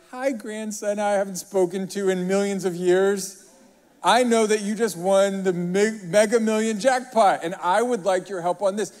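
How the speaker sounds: mock grandma voice. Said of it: "a grandma who calls you".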